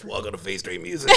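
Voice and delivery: lightly voiced country twang; a hint of a playful country voice. Bandmate imitating himself in the video, light country voice. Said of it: "doing that little country voice".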